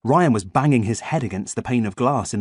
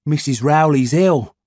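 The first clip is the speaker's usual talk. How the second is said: put-on boy character voice; 4 semitones higher, 5 dB louder, slower than usual. A narrator's reading. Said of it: "said Ian".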